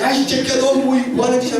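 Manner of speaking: high-pitched mock outburst; acted-out motherly fury; imitated scolding mother. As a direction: catch the child out and scold. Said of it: "엄마한테 또 혼났지".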